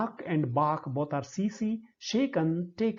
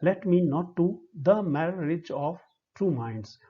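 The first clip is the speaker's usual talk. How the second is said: "Let me / not to / the marriage", split into feet; small breaks after "me", "to" and each later foot; five separate feet. Shown as a demonstration. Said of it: "There are five feet".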